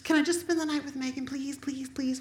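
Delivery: high, quick, softening pleas; pleading daughter. Retold or imitated. Daughter begging her mom to stay over, high and wheedling. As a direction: wheedle like a teen asking a favour. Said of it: "she goes".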